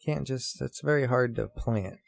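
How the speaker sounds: mock skeptic inner voice; voice of his brain. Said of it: "my brain says".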